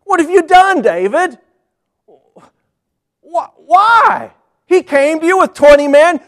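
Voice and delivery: loud, high furious rant. Acted. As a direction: tear into David, beside himself. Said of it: "he's furious".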